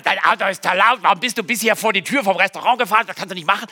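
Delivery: rasche, leicht gereizte Standpauke; gespieltes Schimpfen. Acted. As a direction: den Fahrer mild zurechtweisen, zügig. Vorgestellte Schimpfrede an Autofahrer. (gespielt schimpfend, schnell)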